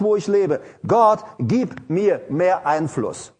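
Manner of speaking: intent, pleading prayer voice; earnest prayer. Shown as a demonstration. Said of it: "Ich bete". (eindringliches Gebet)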